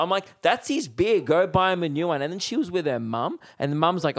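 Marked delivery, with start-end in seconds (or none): 0.4-2.2 higher-pitched, indignant scolding; retold telling-off. Comic ordering the girl to replace the beer, retold telling-off. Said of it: "I start teeing off with this girl".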